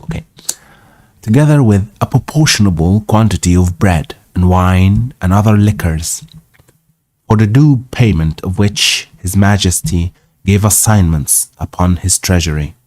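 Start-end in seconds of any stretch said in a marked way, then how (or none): 1.2-12.7 measured read-aloud narration; story narration. A narrator's reading. Reading an old travel tale aloud, story narration.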